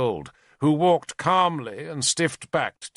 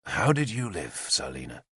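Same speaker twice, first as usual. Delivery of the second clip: gently; 5 semitones lower than usual. Acted. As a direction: coax the frightened child. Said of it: "Arthur asked her gently".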